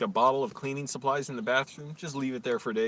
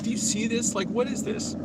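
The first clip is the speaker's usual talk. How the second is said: much higher, puzzled question; baffled asking; 12 semitones higher, 3 dB louder than usual. Retold or imitated. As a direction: ask in high bewilderment.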